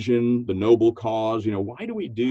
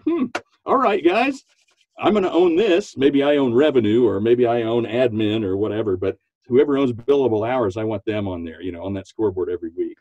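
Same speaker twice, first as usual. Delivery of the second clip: coach voice. Retold or imitated. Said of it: "break that down and say".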